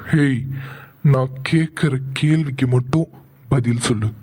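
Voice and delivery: low, hard questioning; low angry interrogation. Acted. Elder brother interrogating his younger brother about the girl, low and angry. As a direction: grill him with cold anger.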